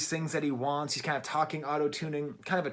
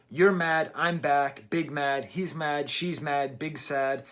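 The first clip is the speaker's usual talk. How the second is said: punchy, evenly chanted list, loud at first; mock grammar-drill recital; reciting a conjugation; 4 dB louder, slower than usual. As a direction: rattle them off like verb forms. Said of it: "He seems to just be conjugating".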